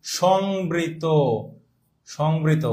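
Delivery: teacher spelling out a term by ear; slow dictation. Shown as a demonstration. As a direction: say "সংবৃত" slowly, letting it sink in.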